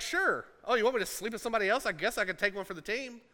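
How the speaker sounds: mock shrug. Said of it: "He's like".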